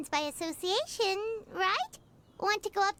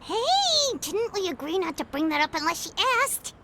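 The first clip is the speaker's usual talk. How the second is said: hissed scolding; 2 semitones lower, 5 dB louder than usual. Acted. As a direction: scold your partner for spilling the secret. Paimon scolds Traveler for blurting.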